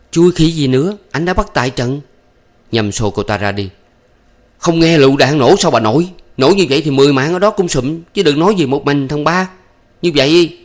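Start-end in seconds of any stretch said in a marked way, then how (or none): 0.1-2.0 irritated retort, higher and louder; cranky snap. A narrator's reading. Thắm snapping at her lover, annoyed. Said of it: "Thắm đổ quạo". 4.6-10.6 exasperated. A narrator's reading. Lovers quarrel, Nhâm shoves her.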